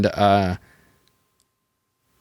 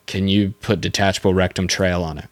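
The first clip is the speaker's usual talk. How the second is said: deadpan, as if it were perfectly normal; straight-faced request; 2 semitones lower than usual. Retold or imitated. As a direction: ask it with a completely straight face. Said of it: "with a straight face and was like".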